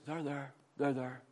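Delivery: soft there-there; mock soothing. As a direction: imitate someone gently placating. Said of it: "if we're always going to people".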